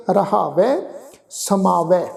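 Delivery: ਰਹਾਵੈ, ਸਮਾਵੈ each ending in open "ai". Shown as a demonstration. Teacher models the dulavan tone, open ai in ਰਹਾਵੈ ਸਮਾਵੈ. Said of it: "tone ਵਿੱਚ ਹੀ ਉਚਾਰਨ ਕਰਨਾ".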